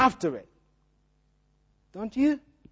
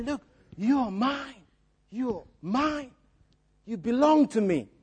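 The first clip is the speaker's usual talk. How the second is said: gentle claim; 4 dB quieter than usual. Retold or imitated. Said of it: "I'm sure God wouldn't say it like that".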